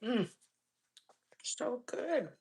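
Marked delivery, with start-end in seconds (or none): 1.4-2.3 hushed whisper. Real, not acted. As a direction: whisper it off mic. Whispering off camera.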